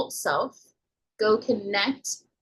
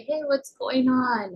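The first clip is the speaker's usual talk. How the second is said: slow, higher, gentle asking; comforting parent; 4 semitones higher, slower than usual. Shown as a demonstration. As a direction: ask it slowly like soothing a hurt child. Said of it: "kind of bringing that comfort".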